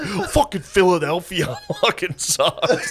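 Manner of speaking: high, drawn-out mock griping; upset complaining. Upset comics griping on the ride home, high mock cursing. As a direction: imitate sore losers cursing, high and slow, with a laugh. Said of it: "they were so upset".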